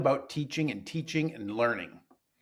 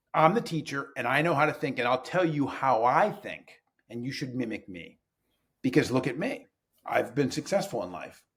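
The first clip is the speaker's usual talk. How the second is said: mock know-it-all teacher. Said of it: "is typically done like this".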